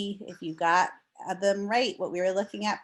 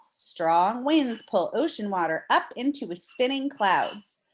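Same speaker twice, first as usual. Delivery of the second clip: clear, expressive read-aloud voice; reading to children; slower than usual. Acted. Teacher reading a storm book to her class, storybook read-aloud.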